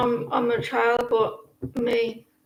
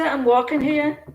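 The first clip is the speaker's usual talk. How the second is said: playful New York catchphrase impression; Yankee accent; 3 semitones higher than usual. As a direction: quote it in a mock Yankee accent. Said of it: "Don't they say".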